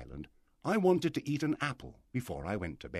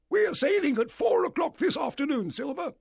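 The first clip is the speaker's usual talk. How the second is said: high, loud announcement; blustering, high-pitched shout; booming squire; 6 dB louder than usual. A narrator's reading. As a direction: call out the sailing time like an order. Squire calls orders to the cook.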